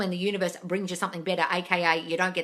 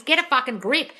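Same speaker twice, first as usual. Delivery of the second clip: exasperated shout; 5 semitones higher, 6 dB louder than usual. Real, not acted. Coach repeats her advice to follower, now shouting it. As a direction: Get a fucking grip, higher and louder, every word hammered. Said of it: "How'd you not hear me?".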